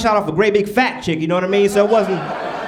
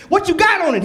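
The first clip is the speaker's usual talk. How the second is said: pushier repeat; 6 semitones higher than usual. Retold or imitated. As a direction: press him harder the second time. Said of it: "I said".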